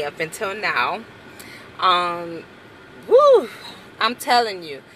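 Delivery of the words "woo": high woo. Real, not acted. Exclamation before serious story.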